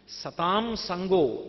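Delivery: drawn-out intoning of సతాం సంగో, each syllable held; slow recitation. Acted. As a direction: intone the maxim slowly, like a quoted scripture. Repeated Sanskrit maxim, slowly intoned. (సతాం సంగో నెమ్మదిగా సాగదీసి పఠించడం)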